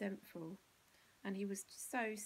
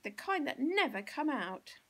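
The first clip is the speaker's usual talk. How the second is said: higher, loud despairing cry; shrieking; 6 semitones higher, 9 dB louder than usual. Acted. Mother despairs over the stains, loud and high. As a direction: lament it at full volume. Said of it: "she shrieked".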